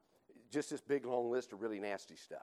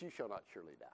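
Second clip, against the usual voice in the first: hissing snake voice; 4 semitones lower, 8 dB quieter, much faster than usual. Retold or imitated. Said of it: "Kind of in a hissing, snaky-like voice".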